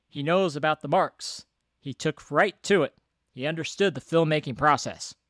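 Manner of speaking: lightly voiced reporter-like delivery; slightly put-on, emphatic quoting voice; Joe Dante. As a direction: punch out the quote like a reporter. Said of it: "I don't know if that's what Joe Dante sounds like".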